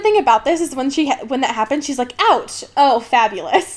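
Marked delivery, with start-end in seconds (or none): 2.2-3.7 flat deadpan sarcasm; monotone voice. Retold or imitated. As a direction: say it with no feeling at all. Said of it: "in just, like, a monotone voice".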